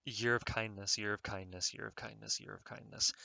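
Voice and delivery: soft repeated mantra, fading; self-calming mantra. Real, not acted. Reminding himself to be kind, soft mantra. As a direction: chant it to yourself to stay calm.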